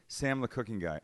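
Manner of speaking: mock-embarrassed, quiet introduction; sheepish caller. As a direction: softly give the name, falling away. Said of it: "My fear is this".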